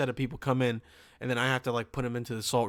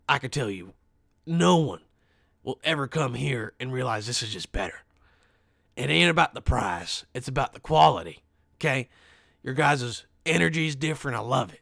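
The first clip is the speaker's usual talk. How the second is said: Alex Jones voice. Retold or imitated. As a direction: sell the quality like a radio host. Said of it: "that's Alex Jones".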